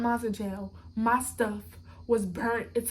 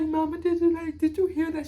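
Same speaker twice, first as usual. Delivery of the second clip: retold urgent plea; 5 semitones higher, 5 dB louder than usual. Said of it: "So I'm like".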